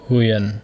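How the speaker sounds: huyền dropping in pitch; falling tone. Shown as a demonstration. Teacher showing each name carries its tone, huyền falling. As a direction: let huyền sink as you say it. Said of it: "has the falling tone".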